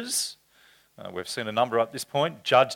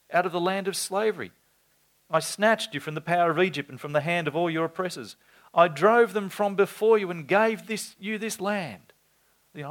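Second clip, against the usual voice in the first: lightly voiced prophet; 5 semitones higher than usual. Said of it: "He sent them a prophet who said".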